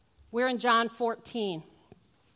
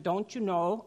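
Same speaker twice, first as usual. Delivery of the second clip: put-on Minnesota accent; 3 dB louder than usual. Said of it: "Little Minnesota there".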